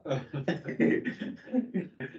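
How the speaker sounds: laugh. Real, not acted. Laughing after class joke.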